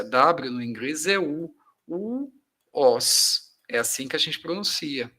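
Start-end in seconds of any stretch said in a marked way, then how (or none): 0.0-3.6 "W" spelled out as an u sound, "os". Shown as a demonstration. Teacher sounding out "was" for students. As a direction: build the word from an u sound. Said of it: "Olha a pronúncia".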